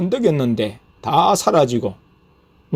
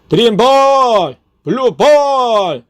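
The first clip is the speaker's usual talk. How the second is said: high, loud cries, each drawn out slowly; shouted attack calls; 8 semitones higher, 5 dB louder, slower than usual. Retold or imitated. Narrator trying to banish a huge demon face, shouting. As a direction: fire off each name as a long battle cry. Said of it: "외쳐도".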